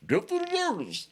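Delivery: high, put-on comic voice, hamming up a drunk racist; David Chappelle voice. Mocking drunk skinheads on the yard, hammed-up comic impression. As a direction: play the yard chant like a Chappelle sketch character. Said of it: "David Chappelle voice".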